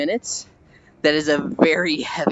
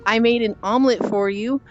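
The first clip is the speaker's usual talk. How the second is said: higher-pitched anime little-sister voice; mock cutesy sister, pitched up throughout; sweet little sister; 6 semitones higher than usual. Little sister voiced in retold scene.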